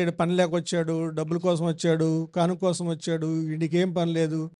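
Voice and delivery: low, quiet run of mock complaints; imitated grumbling. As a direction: grumble under the breath like a dismissive householder. Mimics householders grumbling about visiting pastors. (సణుగుతున్నట్టు తక్కువ గొంతుతో అనుకరణ)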